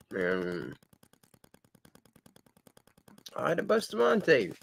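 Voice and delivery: talking while chewing gum. Real, not acted. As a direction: talk round a piece of gum. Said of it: "I got gum in my mouth".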